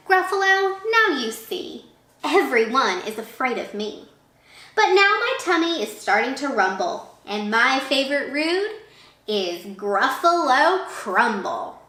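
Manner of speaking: a hint of a cocky little mouse; lightly voiced boastful mouse. Mouse threatens the Gruffalo.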